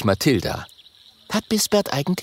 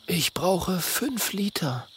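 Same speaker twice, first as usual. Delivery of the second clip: softer, slow, downcast admission; sad, quiet; 8 semitones higher, 6 dB quieter, slower than usual. Acted. Vampire boy looks at tiny Minimo, quiet sad confession. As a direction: say it glumly, almost under breath. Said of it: "macht plötzlich ein ganz trauriges Gesicht".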